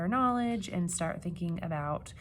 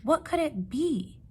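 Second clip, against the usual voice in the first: nervous question; 7 semitones higher, 4 dB louder than usual. Acted. Frightened animals wonder.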